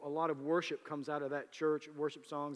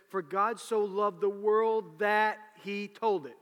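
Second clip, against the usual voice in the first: mock misquote; 5 semitones higher, 8 dB louder, slower than usual. Shown as a demonstration.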